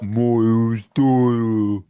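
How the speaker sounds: put-on slow, stretched English accent. Co-host mimicking the English-accent insult of his name. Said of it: "is that an English accent".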